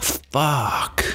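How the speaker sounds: a sudden high curse, in a put-on voice; pained curse. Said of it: "And he's like".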